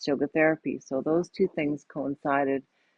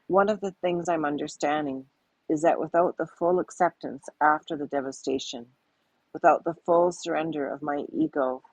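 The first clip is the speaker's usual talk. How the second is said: reading her own journal aloud. Acted. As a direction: read it like a personal diary passage. Guest reads her weblog aloud.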